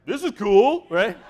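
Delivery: high, loud thrilled exclamation; excited kid. Retold or imitated. Jack, loving the climb among spiders and screaming, excited. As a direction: blurt it out, thrilled, pitch jumping up. Acting out Jack's delighted reaction.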